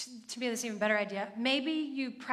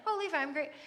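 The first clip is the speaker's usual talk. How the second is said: higher, tossed-off mock gratitude; perfunctory thanks; 4 semitones higher, faster than usual. Shown as a demonstration. Parent to son at bedtime, perfunctory mock gratitude. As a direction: rattle it off as empty thanks. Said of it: "don't just say, like".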